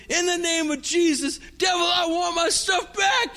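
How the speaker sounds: high, shouted rebuke; angry shout. Retold or imitated. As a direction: shout it at the devil in anger. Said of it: "I'm mad now".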